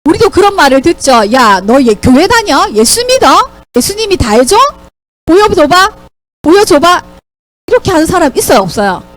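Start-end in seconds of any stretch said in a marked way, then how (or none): 1.3-7.0 lightly acted taunting questions; teasing mockery. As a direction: tease a churchgoer, daring them to prove it. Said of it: "이런 식으로 놀리고". (교회 다니는 친구를 놀리듯이)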